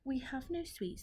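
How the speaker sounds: tiny creatures answering meekly; timid ants. Acted.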